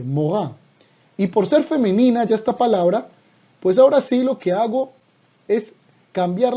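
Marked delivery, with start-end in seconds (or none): 0.0-0.5 "morá" said slowly and clearly, stress on the final á; "morá" pronounced carefully like a teacher; Hebrew pronunciation. Shown as a demonstration. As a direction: say "morá" as a model word, landing on the á. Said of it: "pero se pronuncia diferente".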